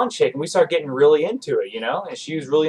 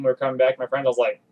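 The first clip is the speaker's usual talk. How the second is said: ordinary delivery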